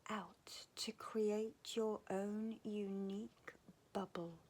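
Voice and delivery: unhurried meditation voice with long pauses; guided meditation. Real, not acted. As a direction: guide them gently into calm, phrase by phrase.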